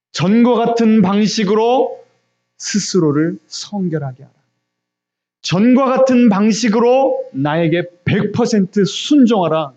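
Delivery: high, slow, emphatic decree; God's command. Acted. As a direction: proclaim it as a divine order. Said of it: "주님께서 말씀하시는 거예요". (높고 힘주어 천천히 선포하는 말투)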